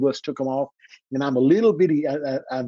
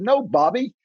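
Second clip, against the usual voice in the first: voice of the Lord; 6 semitones higher, slower than usual. Retold or imitated. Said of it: "and a voice said".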